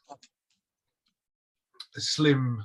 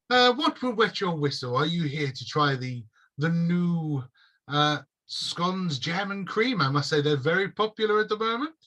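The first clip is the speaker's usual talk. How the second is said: a hint of a high, fussy host; politely pushing the scones; prim elf shopkeeper; 4 semitones higher than usual. Elf shopkeeper recommending scones, lightly sing-song.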